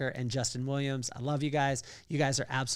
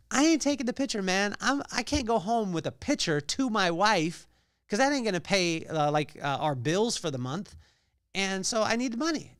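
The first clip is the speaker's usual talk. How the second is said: higher-pitched, insistent mock protest; indignant protest; 6 semitones higher than usual. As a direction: play the broke young lawyer digging in his heels. Young attorney insists on money.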